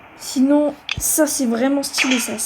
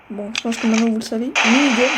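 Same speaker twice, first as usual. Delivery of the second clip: blocked nose. Real, not acted. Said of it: "j'ai le nez bouché".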